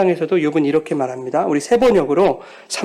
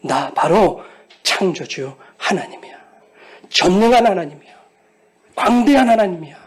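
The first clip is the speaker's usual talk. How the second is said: building louder proclamation; God declaring; 3 dB louder than usual. Retold or imitated. Pastor voicing God declaring Himself, building. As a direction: rise to a proud declaration. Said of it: "이렇게 말씀해 주시는 거예요".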